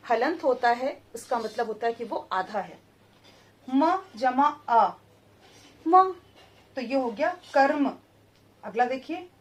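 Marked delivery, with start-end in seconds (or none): 3.7-6.1 very slow, each letter apart; slow spelling. Shown as a demonstration. Teacher building the word letter by letter, slow and deliberate. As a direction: spell it out slowly for children. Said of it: "spelling out letters".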